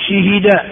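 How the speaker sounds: شهد as shihida; vowel harmony. Shown as a demonstration. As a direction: say شهد with i in first two syllables. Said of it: "تتبع الفاء حركة العين". (شهد بكسر الشين والهاء)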